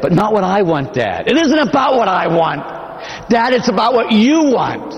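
high, pleading plea to Dad; begging. Retold or imitated. Jesus begging his father not to drink the cup, pleading high. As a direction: beg with every word, voice up high. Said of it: "He begs his father".

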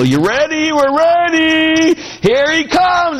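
high, slow, drawn-out faith-healer build-up; high, slow showman's tease before the big moment; Benny Hinn impression. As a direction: ham up the TV healer winding the crowd. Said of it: "it's kinda like Benny Hinn".

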